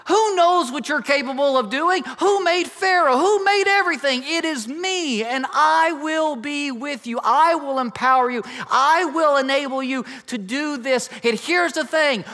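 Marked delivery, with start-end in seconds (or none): 0.1-11.1 God reminding Moses who made him, booming. Acted. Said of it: "In other words".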